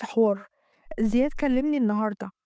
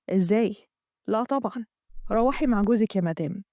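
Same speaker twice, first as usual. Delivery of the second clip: a touch lower, courteous colleague; lightly lowered male voice, polite; lightly voiced polite man; 3 semitones lower than usual. Amgad voiced by narrator.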